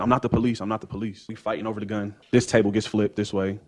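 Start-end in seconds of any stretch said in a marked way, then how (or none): 0.0-0.6 mild mock yell, a bit louder; pleading half-shout in the retelling; retold scream. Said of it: "I'm screaming".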